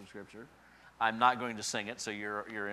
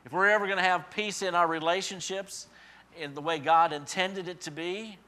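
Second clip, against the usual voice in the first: raised preaching; 6 semitones higher, 6 dB louder than usual. Real, not acted.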